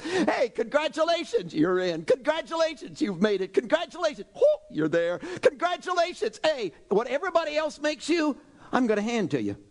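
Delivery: high, bright bursts of celebration; cheering congratulations. Retold or imitated. A preacher voicing Jesus congratulating his listeners. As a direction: slap them on the back with joy.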